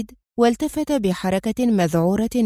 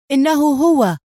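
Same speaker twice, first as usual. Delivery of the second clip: sharp, louder, higher furious recognition; furious cry; 6 semitones higher, 5 dB louder than usual. Acted. Squad leader spotting the enemy, furious cry. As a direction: spit it out in pure rage. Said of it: "بكل غضب الدنيا".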